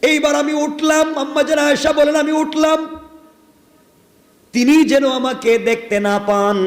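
high, ringing preacher's call; fervent preaching. Acted. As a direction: lift the story to the crowd in full sermon voice. Preacher voicing Aisha's account.

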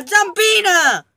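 slow, high, savoured; playful drawn-out name. Real, not acted. Gamer naming the in-game creature, drawn out playfully. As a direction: stretch the name out teasingly.

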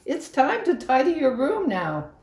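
high, loud call up the stairs; mother calling her child from afar. A narrator's reading. Mother calls Angelina to tidy her room, a loud high call. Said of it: "was always calling to her".

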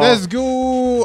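excited. Real, not acted. Hyping up the car ride.

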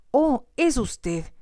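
high, slow, drawn-out gasp of recognition; startled exclamation. A narrator's reading. Young lady recognising the intruder at her door, startled. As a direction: let it dawn on her with dismay. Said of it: "se detuvo para exclamar".

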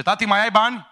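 mocking voice of a spendthrift son; cheeky son. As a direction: play the spoiled son hitting up his dad. Acting the greedy son asking father.

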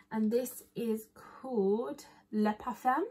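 slow, mock French pronunciation; fake French accent. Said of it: "This is me pretending to speak French".

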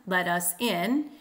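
slow "let us IN", stress on in; two light beats, then a strong "in"; anapestic stress. Shown as a demonstration. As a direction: scan "Let us in" landing on IN. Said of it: "two unstressed, one stressed".

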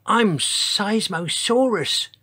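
high, slow, tiny giant. A narrator's reading. Enormous dinosaur introduces himself, tiny-voiced. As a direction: squeak it out in a tiny voice. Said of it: "in a voice so tiny she could hardly hear it".

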